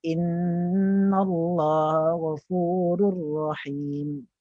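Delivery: slow chant, HA of INNALLAHA and GH of GHAFURUR blurred; indistinct ha and ghin. Shown as a demonstration. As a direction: chant it slowly, glossing over GH in GHAFURUR. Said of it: "contoh ada dua huruf tak jelas tu". (bacaan ha dan ghin tidak jelas)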